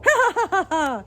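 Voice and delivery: high, loud mocking cackle; harsh cackle. A narrator's reading. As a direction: cackle harshly at your victim. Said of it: "a harsh cackle of laughter".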